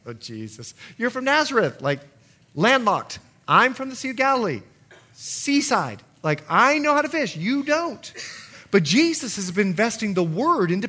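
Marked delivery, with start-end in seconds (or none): 0.1-8.1 scoffing Peter. Acted.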